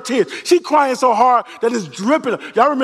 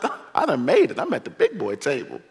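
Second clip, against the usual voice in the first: pleased Jesus; 7 semitones lower, 6 dB quieter than usual. Retold or imitated. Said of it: "Jesus is like".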